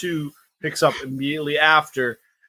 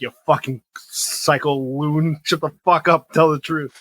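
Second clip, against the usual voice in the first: rude cop; slower than usual. Retold or imitated. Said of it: "he's immediately like".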